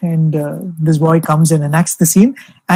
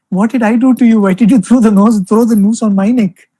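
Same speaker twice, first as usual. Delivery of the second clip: a lightly voiced, gentle plea, a touch higher; pleading Shiva; 4 semitones higher than usual. Shiva on stage pleads with Yama, understated gentle plea. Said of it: "pleads with Yama".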